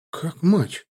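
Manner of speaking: honestly taken aback; Slavka, genuinely surprised the name is a mother's; sincere surprise. A narrator's reading. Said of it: "искренне удивился Славка".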